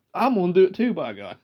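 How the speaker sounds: Uncle Doug. Retold or imitated. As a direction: imitate a country uncle's emphatic declaration. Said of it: "he'd do it like that".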